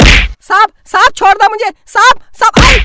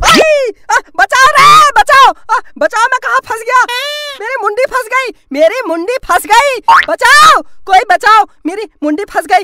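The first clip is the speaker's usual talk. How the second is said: comic cry for help; 4 semitones higher than usual. Acted. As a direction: yell for help, head stuck. Head stuck, calling for help. (फंसने पर मदद के लिए चिल्लाना)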